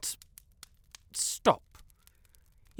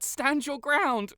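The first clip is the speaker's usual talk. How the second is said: firm command; 8 semitones higher, 5 dB louder, slower than usual. Acted. Urging Cupcake to resist.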